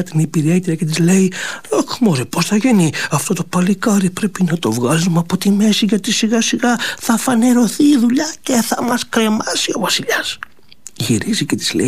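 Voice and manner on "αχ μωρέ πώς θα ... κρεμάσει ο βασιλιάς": a lightly voiced anxious wicked queen; hint of a plotting queen; scheming queen. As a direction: fret over the plot, rising to a hushed end.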